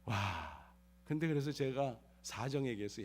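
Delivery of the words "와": normal talking voice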